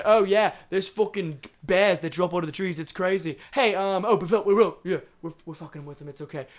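mock Australian. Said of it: "mentality of an Australian person".

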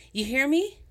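shrill, loud, furious outburst, slowing toward the end; raging. Acted. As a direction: scream it at them so someone outside hears. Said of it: "Rage boiled up in her face".

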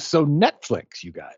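hiccuping mid-sentence; words broken by hiccups. Real, not acted. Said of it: "I got the hiccups".

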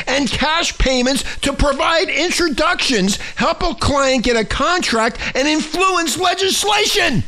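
building to a high shout; indignant. Real, not acted. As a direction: hammer out the charges, rising. Outraged reading of the charges.

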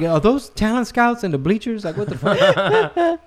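high, laughing what the fuck; dad laughs at being schooled, high and laughing; laughing disbelief. Retold or imitated. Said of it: "I'm looking around like".

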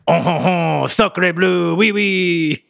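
high, hammed-up French accent; stereotype French impersonation. Shown as a demonstration. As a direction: chortle high like a cartoon Frenchman. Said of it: "do an impersonation of the French".

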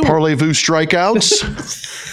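slow, high, hammed-up French accent; bad French accent. Partner answers the joke in a mock French accent. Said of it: "if any French people hear that accent".

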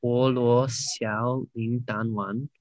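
slow, careful non-native Mandarin names; foreigner speaking mandarin. Real, not acted. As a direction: sound out Chinese names slowly, English accent. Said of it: "my Chinese pronunciation probably ain't the best".

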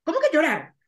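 mock shock at being told to cry; incredulous. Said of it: "o sea, era como".

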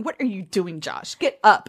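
lightly mock a suitor's earnestness; imitating a dismissive heroine. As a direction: brush him off with mild mockery. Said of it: "she's like mocking".

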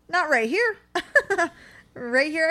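high, laughing correction; amused, teasing her. Real, not acted. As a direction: giggle through the correction. Joking about crossing water.

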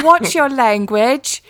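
mock the prim assistant voice; imitating Siri. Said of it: "She's like".

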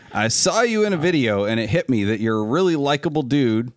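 put-on email read in a light Southern accent. Host reading a fan's email to friends, light Southern accent. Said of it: "reading this in a Southern accent".

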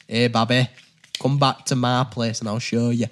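casual Yorkshire chat-up line; Yorkshire accent. Shown as a demonstration. Player practising the card line for friends, Yorkshire accent. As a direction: deliver the come-on in natural Yorkshire. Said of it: "In Yorkshire".

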